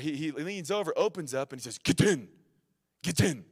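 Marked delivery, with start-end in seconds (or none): 1.8-3.4 put-on loud, thick German-accented command; imitated German accent. German truck driver ordering stranded travelers in, imitated German accent. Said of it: "Thick German accent".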